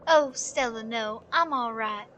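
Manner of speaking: lightly voiced weary old woman; tired old lady. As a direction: gently brush off concern, a touch worn out.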